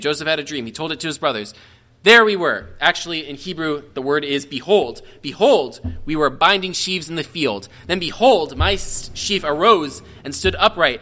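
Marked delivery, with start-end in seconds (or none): 2.0-11.0 raised, eager Bible reading; lively reading of an ancient text; scripture reading. Acted. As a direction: read the dream out with building wonder. Reads Joseph's dream aloud.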